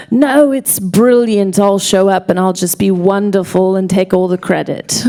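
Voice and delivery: badly faked British English; bad British accent. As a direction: put on a very bad British accent, imitating a breezy friend on the phone. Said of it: "a very bad British accent".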